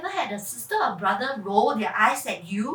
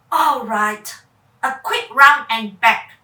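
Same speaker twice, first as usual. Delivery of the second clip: put-on loud, giving-in girl voice; reluctant girl; 2 semitones lower, 10 dB louder than usual. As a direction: agree grudgingly, a bit nervous. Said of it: "Charlene replied".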